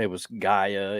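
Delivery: Gaia said as GUY-uh; first guess, Gaia as GUY-uh; trying out a pronunciation. Shown as a demonstration. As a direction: say "Gaia" with an eye sound, GUY-uh. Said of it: "didn't know how to pronounce it".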